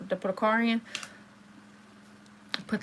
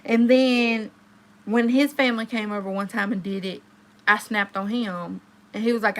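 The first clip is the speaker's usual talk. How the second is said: usual speaking voice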